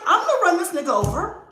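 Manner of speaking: high, loud mock-furious ranting; retold rage. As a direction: replay the angry threat with comic excess. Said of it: "But I was so mad".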